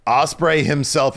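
ordinary talk, nothing marked

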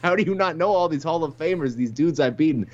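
mildly acted incredulous outburst; mock taken aback. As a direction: play someone briefly taken aback. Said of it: "Tyron was almost taken aback".

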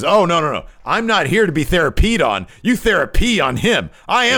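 hammed-up hysterical Gargano yelling at the therapist; shrill demand. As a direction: screech lock him up at the therapist. Gargano denies needing therapy.

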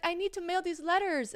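high, put-on German woman's accent; imitated German accent. Stranger needing her letters mailed, imitated German accent. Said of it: "she definitely had a thick accent".

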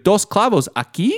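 put-on over-articulate like to a kid; a touch of condescending Spanish; condescending construction Spanish. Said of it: "you sound condescending".

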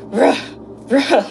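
a couple of mock angry "ruh" barks. Imitating the angry thing on the phone, mild mock barks. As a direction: bark it out like something mad. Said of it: "it sounds so angry".

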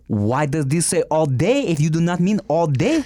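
mock-French complaint; French accent. Complaining about the menu in a French accent. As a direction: grumble in a put-on French accent. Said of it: "we are talking in French".

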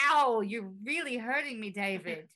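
lightly British pleading voice; hint of a hurt British woman; impression of a singer. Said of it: "That was my impression of a singer".

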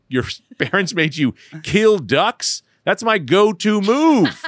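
slow, high and loud through laughter; laughing disbelief. Real, not acted. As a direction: crack up at the coincidence. Laughing at shared dark story.

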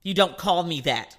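loud, emphatic indignation; mock outrage, hitting the opening hard; upset mother, retold. Mother upset at being called by name, loudly indignant. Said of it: "then she got upset".

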